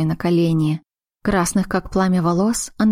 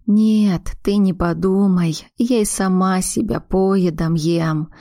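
mother crying; slower than usual. Acted. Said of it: "Ты только не плачь".

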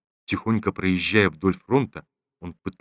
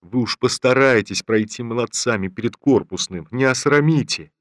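pleading; 2 semitones higher than usual. Acted. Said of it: "почти упрашивали солдат".

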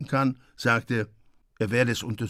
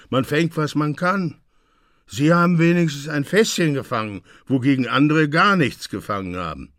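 Kaiser's voice; 4 semitones higher, 5 dB louder than usual. Acted. Kaiser answers the mayor.

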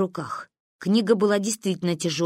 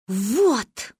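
solemnly announced, drawn-out single word; solemn pronouncement; 2 semitones higher than usual. A narrator's reading. Girl announcing her idea to her friends, solemn. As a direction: proclaim it with mild pomp. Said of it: "наконец торжественно изрекла она".

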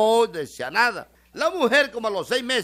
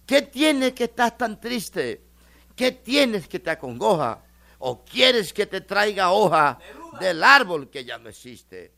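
slow, tender poetic recital; pretty line; 4 dB louder, slower than usual. Retold or imitated. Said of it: "una frase bien bonita".

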